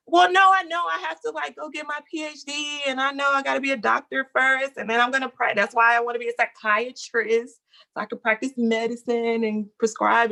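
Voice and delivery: high, fast, breathless pleading; eager protest. Retold or imitated. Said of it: "And I was like".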